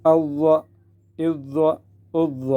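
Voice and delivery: heavy held dh; whistle-free doubled zaa. Shown as a demonstration. Teacher drills doubled zaa without whistle. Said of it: "بالکل نہیں نکل سکتی".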